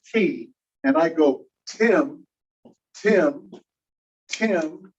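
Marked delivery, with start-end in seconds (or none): 1.7-4.9 TIM with a puff of air on the T; aspirated T. Shown as a demonstration. Teacher demonstrating the phoneme T, TIM with aspirated T. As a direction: repeat TIM, releasing breath after each T. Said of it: "the puff of air coming out with it".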